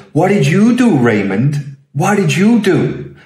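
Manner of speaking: high-pitched, hammed-up bad Boston accent. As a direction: imitate a father badly faking a Boston accent. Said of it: "trying to do a Boston accent badly".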